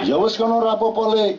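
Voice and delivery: suara tinggi penuh kasih dari langit. Retold or imitated. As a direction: jawab lembut seperti Tuhan kepada anak. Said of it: "gitu dari langit". (suara langit yang tinggi dan menenangkan)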